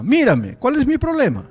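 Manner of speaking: loud, high, bitter demand; angry retort. Retold or imitated. Bedridden young man to the pastor, angry and loud. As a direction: throw the question back in anger.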